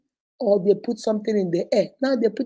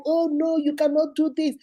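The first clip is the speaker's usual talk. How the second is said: retold protest; 4 semitones higher than usual. Relative's protest acted out, high voice.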